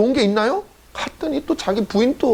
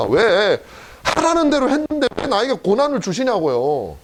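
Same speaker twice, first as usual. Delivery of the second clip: pleading Noah; 3 semitones higher than usual. Acted. Noah pleading why God allows pain.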